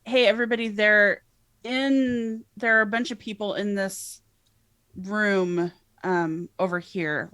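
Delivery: loud call to the room; yelling. Acted. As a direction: shout it out to everyone. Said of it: "I'm also gonna yell".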